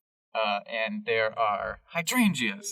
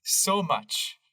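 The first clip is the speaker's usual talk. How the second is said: slow, drawn-out exasperated complaint; sighing exasperation; 4 semitones higher, much slower than usual. Acted. Harold complaining about his brother, slow exasperation. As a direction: stretch it out, lightly acted exasperation. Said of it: "Harold sighs and he goes".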